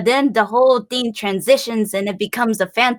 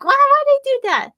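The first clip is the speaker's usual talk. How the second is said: baffled; 14 semitones higher than usual. Retold or imitated. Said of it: "I'll be like".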